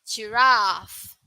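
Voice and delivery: "Giraffe" the British way, long "raff"; British pronunciation. Shown as a demonstration. Teacher modelling the UK "Giraffe" to the class. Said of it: "For U K".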